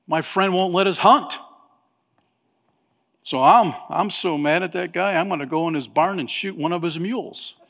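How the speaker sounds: lightly hammed-up anger; Mickey faking rage to his friend, mildly hammed-up; mock anger. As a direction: fake being furious for show. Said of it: "he pretended to be very angry".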